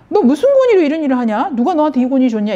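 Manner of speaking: high-pitched mock interrogation; retold confrontation. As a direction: act out leaders challenging his authority. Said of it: "종교 지도자들이 막 와가지고 예수님 따지는 거야".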